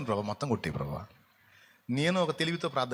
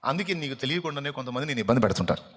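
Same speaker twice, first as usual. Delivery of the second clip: ordinary delivery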